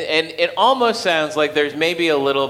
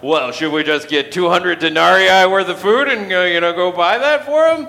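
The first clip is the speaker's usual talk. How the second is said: sarcastic; 5 semitones higher, 6 dB louder than usual. Retold or imitated. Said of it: "they're getting sarcastic with Jesus here".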